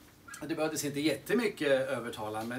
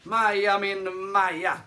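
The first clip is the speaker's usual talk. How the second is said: upbeat announcement; 7 semitones higher, 12 dB louder than usual. Real, not acted. Announcing the song just played.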